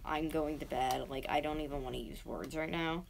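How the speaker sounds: imitated sleep talk. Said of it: "in his, like, sleeping talk".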